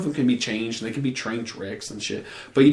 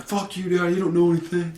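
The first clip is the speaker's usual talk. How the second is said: higher, put-on sulky teenager voice; bratty teen; 6 semitones higher than usual. Teenage son talking back to his dad, mock bratty higher voice. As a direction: sneer it back like a kid who thinks he knows it all.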